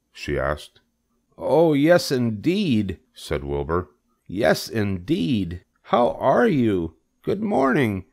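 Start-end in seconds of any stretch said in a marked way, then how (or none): 1.4-3.0 high, eager pig voice; delighted Wilbur. Acted. Wilbur delightedly greets his new friend. 4.3-8.1 very high, eager pig voice; delighted Wilbur. Acted.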